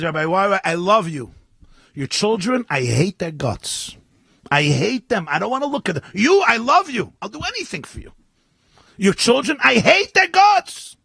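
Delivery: two-faced admirer. Acted. Rabbi voicing a congregant who loves him but hates his kids, mock outburst. Hypocrite's declaration voiced in sermon.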